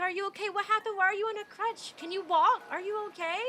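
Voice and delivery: high, gushing mock concern; fake concern. Crowd of bandmates fake concerned.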